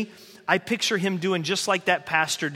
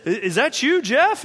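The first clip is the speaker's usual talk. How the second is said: kind janitor calling; 5 semitones higher, 4 dB louder than usual. Retold or imitated. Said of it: "he says".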